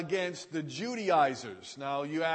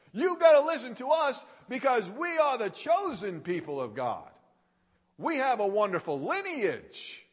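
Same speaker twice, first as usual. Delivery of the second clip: mock boasting, a little higher; boastful; 4 semitones higher, faster than usual. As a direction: imitate people bragging of their lineage. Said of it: "These guys were boasting".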